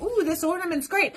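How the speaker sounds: high-pitched delighted cat; cooing cat voice. Retold or imitated. Owner voicing Lucy eyeing the ornament, high and cooing. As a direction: coo it like a cat eyeing a toy. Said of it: "She's like".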